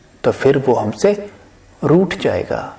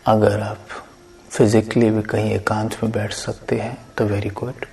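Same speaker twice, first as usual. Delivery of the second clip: guided meditation. Acted. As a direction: lead listeners gently inward, unhurried.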